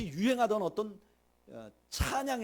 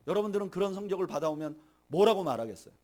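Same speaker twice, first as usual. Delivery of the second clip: normal talking voice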